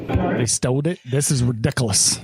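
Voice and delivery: slurred-word mimicry of "stole it" and "ridiculous"; mocking mispronunciation. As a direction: imitate the botched "stole it" as "stoled it". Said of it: "pronounce English words".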